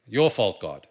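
loud blaming shout, mock Adam; Adam accusing God. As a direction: throw the blame back loudly. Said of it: "Accused God".

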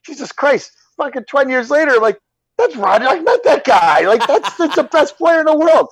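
high-pitched astonished recognition; retold amazement. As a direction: marvel at who he turned out to be. Retold amazed recognition years later.

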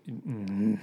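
low-key hesitant grumble. Real, not acted. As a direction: grumble quietly while making up your mind. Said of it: "heard you grumble".

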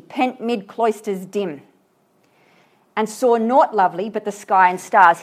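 fuller, ringing verse recital; poem reading. Acted. Teacher reading the passage aloud to his students, ringing recital. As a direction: read it out with growing feeling.

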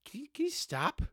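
mock the fed-up coach begging him to stop; exasperated coach. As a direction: coach chewing out a dancing player. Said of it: "Tomlin, was just like".

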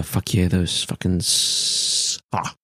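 reacting to a sour candy mid-sentence; talking through a sour candy; eating sour candy. Real, not acted. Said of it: "Jake just ate a candy".

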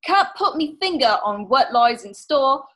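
light mock Cockney accent, storyteller lilt; a hint of a Cockney sea-dog telling an omen. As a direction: set a spooky scene in a playful Cockney accent. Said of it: "that was my Cockney accent".

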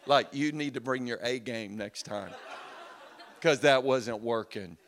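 laughing, cocky taunt; mock the weak spanking; defiant kid. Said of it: "he'd look at you and go".

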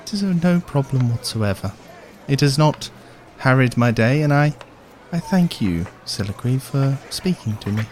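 formal, halting dwarf, softening at the end; soft-spoken dwarf. Acted. Dwarf thanking Siliqui for talking, soft-spoken. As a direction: give courteous thanks as a gentle dwarf. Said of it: "it's a very soft-spoken dwarf".

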